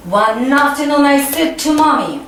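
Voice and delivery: clear, measured line for the class to echo; model reading for repetition. Shown as a demonstration. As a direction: read it out so pupils can copy. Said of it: "Repeat after me".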